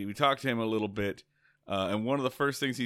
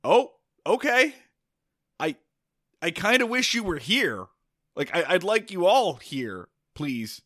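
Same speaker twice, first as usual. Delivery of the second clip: nervous inner voice; 8 semitones higher, 6 dB louder than usual. Retold or imitated. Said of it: "And I start thinking".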